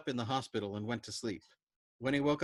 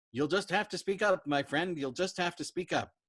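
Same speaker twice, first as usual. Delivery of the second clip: loud call; 7 semitones higher, 5 dB louder than usual. Acted. Crewmate shouting he can't hear.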